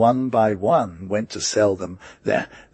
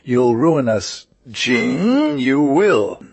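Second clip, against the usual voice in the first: wailing; 3 semitones higher, 4 dB louder, slower than usual. Acted. Master falls into muck, wailing.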